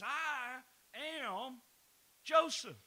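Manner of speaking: slow build, the name rising high and loud; dramatic reveal. Retold or imitated. Joseph reveals himself to his brothers, rising loud declaration. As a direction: land the name like a revelation.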